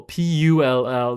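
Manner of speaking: P U L L spelled slowly letter by letter; slow spelling of P U L L. Shown as a demonstration. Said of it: "they say pull".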